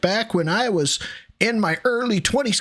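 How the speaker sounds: mock an old man reminiscing; mock nostalgic dad.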